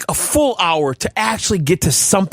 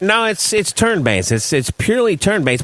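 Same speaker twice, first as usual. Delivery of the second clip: lightly voiced 1940s wise guy; a hint of forties tough guy; old-timey 1940s man; 3 semitones lower than usual. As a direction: talk like an old-time radio character. Plays a 1940s character.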